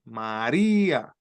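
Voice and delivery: María with the stress on the í, slowly; stress on the accent. Shown as a demonstration. Teacher shows the accented í in María, slowly. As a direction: lean on the í in María. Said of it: "tiene el acento".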